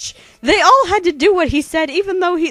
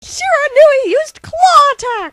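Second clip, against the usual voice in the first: high, loud move announcements; Pokemon battle calls; 9 semitones higher, 4 dB louder than usual. Acted. Two narrators trading battle moves, announcer shouts. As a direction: call each move like a game announcer.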